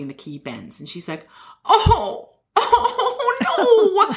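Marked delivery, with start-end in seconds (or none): 1.6-4.1 high, laughing, crestfallen oh no; imitating Barbara Walters let down after the trick, high and giggly; mock disappointment. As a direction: deflate like a child whose toy broke. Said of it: "she's just so disappointed".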